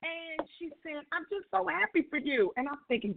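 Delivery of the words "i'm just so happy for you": high-pitched gushing, no real tears; imitated tearful excitement. Young lady congratulating patient on pregnancy, excited. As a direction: lightly imitate someone overcome with happiness. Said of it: "she's so excited, and she started crying".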